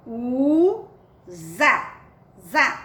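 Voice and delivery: "Usa" como "uuu... za", depois "Za" isolado; leitura silabada. Shown as a demonstration. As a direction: leia "Usa" devagar e repita o "Za" vibrante. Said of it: "é uma sílaba e aqui é outra sílaba". ("Usa" silabado, com som de Z)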